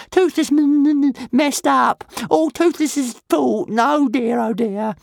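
little dragon stammering in guilty panic, high and loud; panicky dragon. A narrator's reading.

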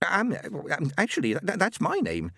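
hopeful stammer. Acted. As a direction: stammer it out hoping. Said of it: "he said hopefully".

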